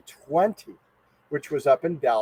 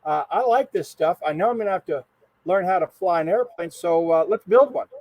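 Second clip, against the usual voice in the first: put-on eager kid; 3 semitones higher than usual. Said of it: "I said".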